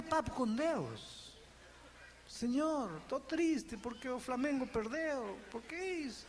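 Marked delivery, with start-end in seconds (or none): 2.3-6.2 soft, casual moan to God; chatty prayer. Retold or imitated. Pastor shows believer softly confiding a football loss. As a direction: talk to the Lord like a friend, a touch glum.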